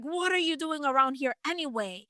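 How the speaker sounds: put-on mildly demanding older brother; a touch of indignant challenge. Older brother challenging young David at the battle, mildly demanding. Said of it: "he demanded".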